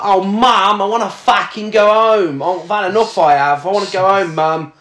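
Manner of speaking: high whining mock daughter; mock-whining daughter begging mum; whiny kid. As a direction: whine like a sulky teenager.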